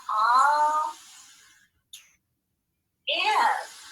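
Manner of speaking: drawn-out first syllable "all", pause, then "if"; slow teacher-style syllable break between "all" and "if"; split into syllables. Shown as a demonstration. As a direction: sound out "all" and "if" separately. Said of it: "I've got two syllables here".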